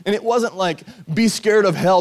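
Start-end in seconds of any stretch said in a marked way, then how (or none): 1.1-2.0 mock hellfire warning.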